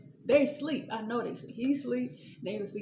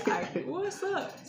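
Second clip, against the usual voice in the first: slow timid answer; 9 semitones higher, much slower than usual. Retold or imitated.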